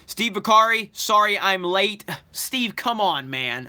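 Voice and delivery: loud, pretend-annoyed call-out of a latecomer; mock scolding. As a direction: fake outrage at a late viewer, all in jest. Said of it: "I'm just messing with you".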